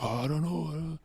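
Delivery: small, high guilty voice; meek mock-guilty squeak. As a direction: act caught out, soft and high. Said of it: "I'm always guilty".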